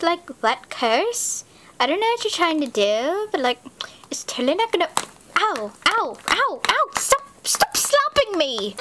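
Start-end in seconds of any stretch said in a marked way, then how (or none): 5.4-8.8 ow ow, rising to a high whine; mock pain. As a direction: protest each slap higher. Being slapped, rising pain.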